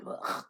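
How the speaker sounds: brief half-hearted choke; choking noise. Acted. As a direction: fake a short throaty choke. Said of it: "And then started to choke".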